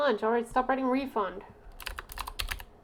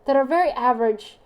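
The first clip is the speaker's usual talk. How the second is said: much higher, loud breezy imitation; mock friend voice; 4 semitones higher, 6 dB louder than usual. Mimicking the friend describing O types, high and loud. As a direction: parrot her cheerful verdict in a high voice. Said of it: "she's like".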